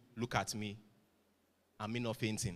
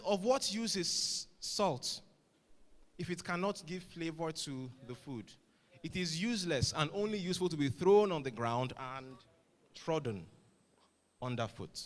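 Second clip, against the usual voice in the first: scripture quote; 3 semitones higher than usual. Acted. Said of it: "it goes on and says".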